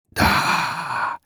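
slow breathless eerie whisper; many-voiced whisper. A narrator's reading. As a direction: hiss it right at his ear. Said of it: "раздался многоликий шёпот".

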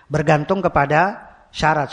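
"Bergantung kepada syarat" spelled out slowly, leaning on "kepada"; slow, deliberate repeat. Shown as a demonstration. Preacher repeating the rule to his congregation, slow and deliberate. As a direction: repeat it slowly so the students catch it.

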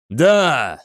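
single forceful cry; triumphant shout. A narrator's reading. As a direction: exult at the hit. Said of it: "закричал Намаджира". (торжествующий крик)

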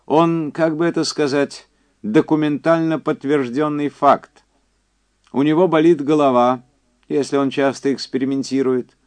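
high, loud, emphatic caller; Quincy's phone voice. Acted. Quincy telling Andy about the test survivors, high and insistent. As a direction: push it up high and project.

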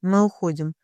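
usual speaking voice

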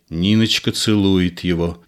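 ordinary delivery

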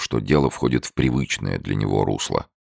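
plain reading voice

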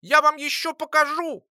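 high, loud little-creature squeak; squeaking threat. A narrator's reading. Lora threatening the boy and alchemist, angry squeak. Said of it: "продолжала пищать Лора".

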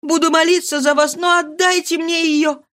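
plead, rising to a shout at the end; mother on her knees begging for her daughter; desperate pleading. Acted. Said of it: "упала к ногам".

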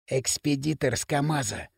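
soft, hushed "Экспедитор с КамАЗа"; whispered aside. Acted. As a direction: drop your voice to tip off a friend. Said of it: "шепнул Примус Лысому".

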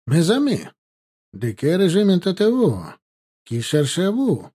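friendly call. A narrator's reading. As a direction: call out amiably to strangers. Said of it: "крикнул он приветливо".

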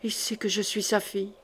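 a silent scream kept inside; inner cry. A narrator's reading. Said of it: "cria Odette au fond d'elle-même".

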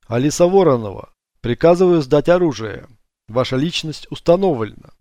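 loud commanding police voice; police order. Acted. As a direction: bark the order to surrender.

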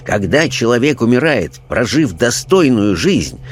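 lightly voiced preachy parson, animated lilt; indignant clergyman. Clergyman instructing his questioners on religion, indignant. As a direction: lecture like an affronted churchman.

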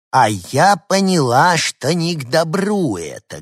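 lightly voiced fussy old lady; old woman fretting. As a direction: grumble it like a suspicious granny. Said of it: "говорила старушка".

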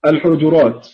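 الحجرات with the jim spelled out clearly; al-Hujurat demo. Shown as a demonstration. Teacher pronouncing الحجرات for students. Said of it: "الجيم فيها ثلاث لغات".

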